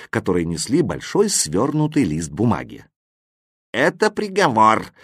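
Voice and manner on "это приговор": high, formal proclamation; announcing. A narrator's reading. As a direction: announce it to the whole hall. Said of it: "объявила запятая".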